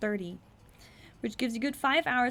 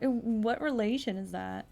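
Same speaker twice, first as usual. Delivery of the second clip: ordinary talk, nothing marked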